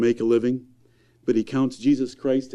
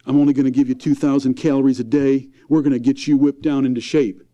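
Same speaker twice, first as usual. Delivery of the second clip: bossy parent; 4 dB louder than usual. Retold or imitated. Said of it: "All we want to do is".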